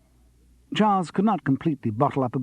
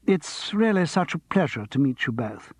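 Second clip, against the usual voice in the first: gushing diva; 3 semitones higher than usual. Acted. Vita interrupting her husband, gushing diva. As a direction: gush over the guests.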